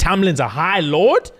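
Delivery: stunned to hear who he is; shocked question. Retold or imitated. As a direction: gasp it out in disbelief. Shocked to learn he's High Lord.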